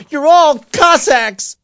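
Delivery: high, loud, drawn-out scream; slow, furious yell; screamed insult. A narrator's reading. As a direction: hurl the accusation at the whole gang. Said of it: "he screamed".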